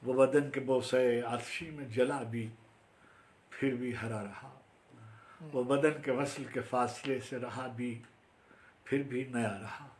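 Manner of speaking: firm opening easing into spaced phrases; formal Urdu verse recital; poetry recitation. Acted. Recites own Urdu poem.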